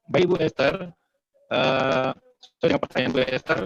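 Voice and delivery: choppy, breaking-up call audio; glitchy jumping pitch. Real, not acted. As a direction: voice cutting in and out over a bad line. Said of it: "suaranya agak putus-putus ya".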